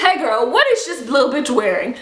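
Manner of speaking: giggling through the words; laughing quote. Retold or imitated. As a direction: laugh while quoting the dispatcher. Dispatcher asks, teller laughing.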